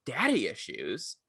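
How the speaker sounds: slow, questioning repeat; mock disbelief. Reacting to coworker's explanation of the film, mock disbelief. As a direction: draw it out as a puzzled question, acting baffled.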